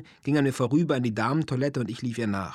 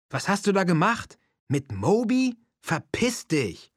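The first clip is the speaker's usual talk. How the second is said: high, loud outraged yelling; angry shouting; 9 semitones higher, 4 dB louder than usual. A narrator's reading. Keith yelling at his girlfriend about a musician, angry shouting. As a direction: yell it in outrage, slowing on the last words. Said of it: "Ich hörte ihn schreien".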